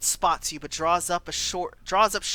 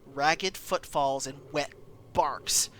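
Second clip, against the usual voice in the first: game master narration. A narrator's reading. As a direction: draw the players into the dark tunnel. GM sets scene.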